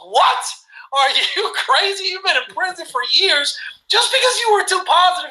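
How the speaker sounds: stunned king asking if he is crazy; incredulous king. Retold or imitated. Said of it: "He goes".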